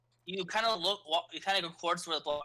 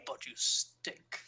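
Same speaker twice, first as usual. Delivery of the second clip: slow priest voice; 2 semitones lower, much slower than usual. Acted. Father Anderson speaks, slow, measured.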